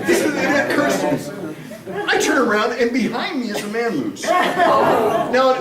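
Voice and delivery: telling the punchline while still laughing; laughing while talking. Real, not acted. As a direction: talk through a laugh. Laughing while telling moose story.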